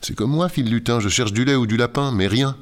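high, eager little elf. Acted. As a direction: chirp it like a small elf. Elf voiced in story.

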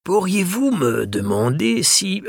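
voix très aiguë et lente; vieux libraire malicieux. Acted. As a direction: souffler la réplique avec espièglerie. (le libraire souffle sa question à Mathias, aigu et lent)

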